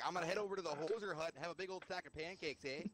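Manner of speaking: put-on Canadian accent. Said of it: "start talking like a Canadian".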